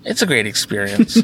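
whispering back. Real, not acted. Answers the whisper in kind.

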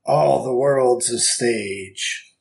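slow grand stage actor; theatrical declaiming. Pretend. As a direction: declaim it like Shakespeare.

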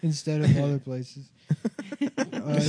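laughing through the ad read; breaking up mid-sentence. Real, not acted.

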